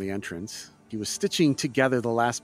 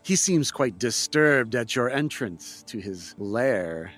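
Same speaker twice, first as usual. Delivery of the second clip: game master narration. A narrator's reading. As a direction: set the scene for the players. GM scene description.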